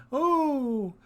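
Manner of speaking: high, drawn-out gleeful "ooh"; excited whoop. Real, not acted. Host overjoyed by the payout, excited whoop. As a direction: let out a delighted rising cry. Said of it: "so, so excited".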